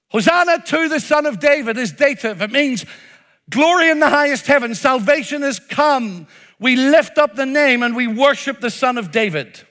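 lifted, exultant worship call; joyful praise declaration. Shown as a demonstration. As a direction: proclaim it as glad praise. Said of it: "But here's the other way".

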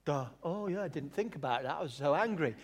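lightly voiced dim, sheepish excuse; parody God. God admitting his anger to Moses, mock sheepish. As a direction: own up with mock embarrassment. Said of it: "that's a parody".

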